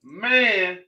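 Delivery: reading a viewer's post aloud, slowly. Retold or imitated. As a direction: read it out slowly to the room. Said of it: "Listen at this here".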